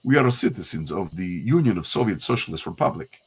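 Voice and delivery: put-on light Russian accent, evenly read. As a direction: read it as a stiff Soviet officer. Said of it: "I can do a Russian".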